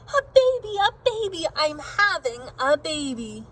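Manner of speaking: high excited shout that settles; mother bursting out that the baby's coming; yelled. Acted. Mother yelling the baby is coming, excited. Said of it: "woke up and yelled".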